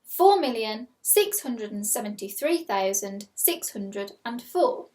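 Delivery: slow, clear dictation of a number; slow school dictation. Shown as a demonstration. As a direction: read it out slowly for pupils. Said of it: "Your second number is".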